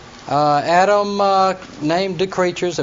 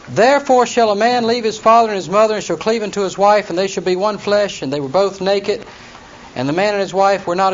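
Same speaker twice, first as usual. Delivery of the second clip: raised, measured Bible-reading voice; scripture reading; 3 dB louder than usual. Acted. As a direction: read the verses out formally to the class. Reads scripture aloud again.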